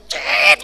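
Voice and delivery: very high squealing brake noise; screeching brakes. Retold or imitated. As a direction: imitate tyres screeching. Braking noise.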